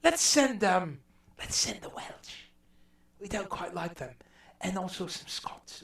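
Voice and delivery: posh imperial English lord, dismissive; lightly voiced aristocrat planning the colonies; mock English colonial official. English lord to his council, lightly mocking. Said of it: "they looked around and they said".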